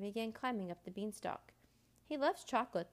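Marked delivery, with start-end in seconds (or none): 2.0-2.9 higher-pitched parting call; calling after. A narrator's reading. Boy to departing Jack, high calling out. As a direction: call it after someone leaving. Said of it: "the boy called after him".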